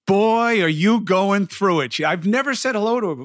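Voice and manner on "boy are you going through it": higher-pitched imitation of the speed walker; retold speed walker. Speed walker stopping a passer-by, imitated, pitched up. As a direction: do her exclaiming, pitched up. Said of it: "she's like".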